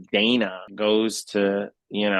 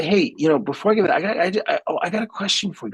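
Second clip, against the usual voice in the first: sly innocent question; 9 semitones higher, faster than usual. Retold or imitated. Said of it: "I say".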